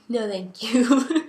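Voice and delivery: tiny unvoiced whisper, slow; whispered no thanks. Daughter whispering a shy refusal to mom, slow whisper. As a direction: breathe it out, barely there. Declining mom's cucumber talk.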